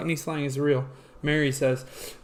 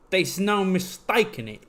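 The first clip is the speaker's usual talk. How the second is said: lightly put-on Cockney; mock Cockney accent; 3 semitones higher than usual. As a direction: slip back into fake Cockney. Resumes the mock Cockney catchphrase.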